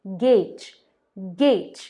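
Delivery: गेज said "gayj", not "gauj"; "गेज" with a long e vowel; correct gauge. Shown as a demonstration. Teacher tells viewers the right "गेज", long e. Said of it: "but कहते नहीं हैं".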